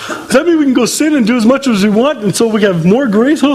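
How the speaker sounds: incredulous mock question. Preacher mocks a wrong idea.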